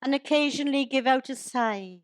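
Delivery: measured, rhyming verse delivery; storytelling in steady verse rhythm; comic poem recital. Acted. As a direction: recite it as light verse to an audience.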